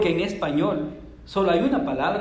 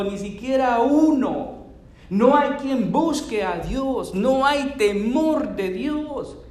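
slow, higher, intoned reading of the verse; solemn scripture reading; 6 semitones higher, 4 dB louder, slower than usual. Acted. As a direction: proclaim each clause slowly like a verdict.

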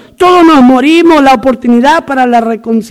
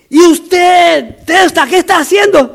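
higher-pitched mock shout; drill instructor demand; 4 semitones higher than usual. Instructor to the second hidden recruit, acted shouted demand. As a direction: challenge him like an army instructor, lightly acted.

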